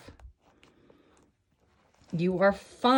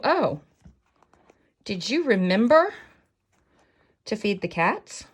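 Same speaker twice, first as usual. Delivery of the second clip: little inner voice; 3 semitones higher than usual. Acted. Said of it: "little voice telling you".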